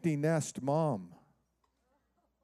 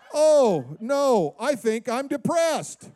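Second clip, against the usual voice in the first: mock moaning husband; 6 semitones higher, 5 dB louder, much slower than usual.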